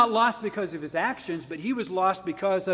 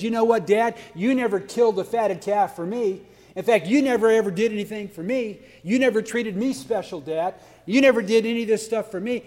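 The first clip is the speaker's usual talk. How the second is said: jealous petty; 3 semitones higher, 4 dB louder than usual. Retold or imitated. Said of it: "he was jealous and petty".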